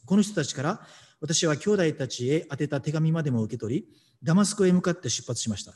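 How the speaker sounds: measured, steady Bible reading; scripture reading. Acted. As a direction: read the passage out to the congregation evenly. Reads scripture passage aloud. (聖書朗読の落ち着いた読み方)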